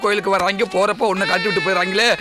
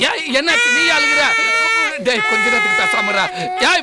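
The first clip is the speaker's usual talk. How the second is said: exasperated shout; 11 semitones higher than usual. Acted. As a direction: yell to make the crying stop. Scolding crying boy.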